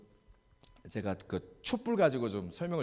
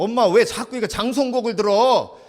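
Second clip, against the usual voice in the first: put-on loud, higher child complaining; lightly voiced son, louder; son's complaint; 8 semitones higher, 11 dB louder than usual. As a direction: whine at mom as the son.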